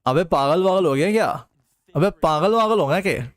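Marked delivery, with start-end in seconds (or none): 1.9-3.3 lightly put-on male voice, barely shifted; male accent. Shown as a demonstration. Chat asks for male accent, he repeats line in a faint put-on voice. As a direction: repeat it in a half-hearted male voice. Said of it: "Male accent please".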